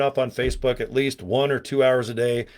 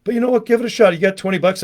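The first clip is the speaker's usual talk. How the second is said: higher and a bit louder, pushing hard; excited sales pitch; 5 semitones higher, 3 dB louder, faster than usual. Real, not acted. To viewers, pitching throat spray with eager push. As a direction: sell it with rising enthusiasm. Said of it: "repeats pitch".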